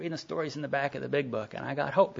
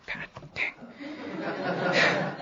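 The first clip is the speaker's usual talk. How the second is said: laughing exclamation; 7 semitones higher than usual. Retold or imitated. Reacting to sponsor's blunt verdict.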